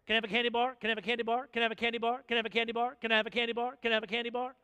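lightly voiced whiny child, same plea over and over; a hint of a toddler begging on repeat; nagging child. Preacher imitating a toddler begging his parent in Walmart, a light nagging whine. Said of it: "a three-year-old who's nagging".

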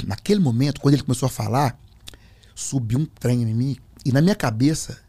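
ordinary talk

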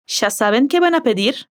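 Ya said as "sha", with an sh sound; Rioplatense ya. Shown as a demonstration. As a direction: open with a River Plate sh on Ya. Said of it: "Con el acento rioplatense".

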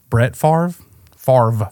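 "Favre" said as FARV. Shown as a demonstration. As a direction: say "Favre" as one syllable, FARV. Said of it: "is not pronounced Favre".

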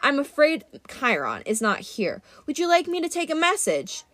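bored, mocking god voice, lightly voiced; lightly voiced languid god; sarcastic Mister D. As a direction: feign interest, dripping sarcasm.

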